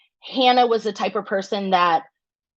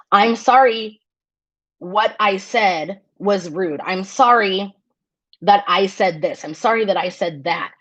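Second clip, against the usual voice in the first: sincere apology. Shown as a demonstration.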